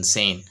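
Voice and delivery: ସେନ୍ said as "sein", rhyming with rain; correct pronunciation. Shown as a demonstration. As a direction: say ସେନ୍ like "sein", long ei vowel. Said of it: "S E I N". (ସେନ୍ "sein" ଭଳି ସଠିକ୍ ଉଚ୍ଚାରଣ)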